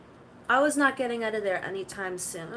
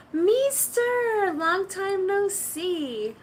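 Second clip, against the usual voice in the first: high and louder, drawn-out and sing-song; mock greeting voice; 8 semitones higher, 4 dB louder, much slower than usual. Greeting the stream with a high playful put-on voice. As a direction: greet them like a cartoon character.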